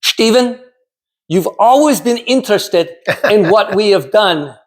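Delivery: mother's Czech accent, lightly voiced; a touch of a Czech mother speaking English fondly; thick Czechoslovakian accent. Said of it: "in her thick Czechoslovakian accent".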